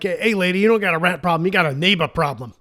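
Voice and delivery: a light hint of a New York accent; lightly voiced New York tough guy. Exterminator telling the lady it's a neighbor problem, in a light New York accent. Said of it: "I'm gonna do a terrible New York accent".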